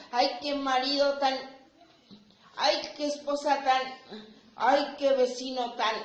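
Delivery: imitating a fed-up complainer; mock complaint. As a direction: huff it out like a fed-up spouse. Mocking people who complain at home.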